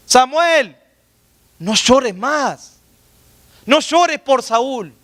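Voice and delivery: high, drawn-out call; exhortación divina. Acted. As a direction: call out slowly as God urging the prophet. God calls to weeping Samuel. (exhortación en tono alto y alargado)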